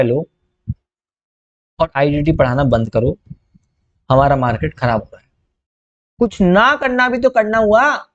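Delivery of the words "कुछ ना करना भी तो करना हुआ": high, slow and drawn out for emphasis; emphatic punchline. Shown as a demonstration. Teacher to students, slow emphatic punchline. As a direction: lean hard on तो and stretch the whole line. Teacher drives home key point.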